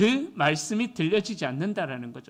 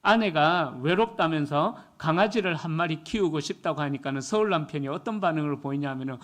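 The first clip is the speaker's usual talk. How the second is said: ordinary talk, nothing marked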